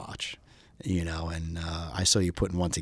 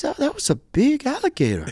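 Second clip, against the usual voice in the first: put-on light Greek accent, pitched higher; 4 dB louder than usual. Greek buddy shrugging off the alligator, light Greek accent. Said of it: "my friend with the heavy Greek accent".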